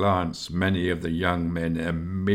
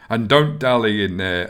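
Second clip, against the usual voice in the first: louder, menacing command; 4 semitones higher, 7 dB louder than usual. Acted. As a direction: threaten them with it. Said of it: "added Esgar menacingly".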